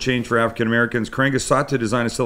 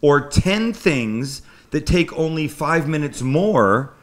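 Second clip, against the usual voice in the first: lecturing; 4 semitones higher, much slower than usual. Retold or imitated. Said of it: "I got a little lecture before".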